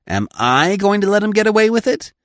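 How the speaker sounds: loud, scornful echo; annoyed. Acted. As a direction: throw the question back, annoyed. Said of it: "annoyed by the foolish question".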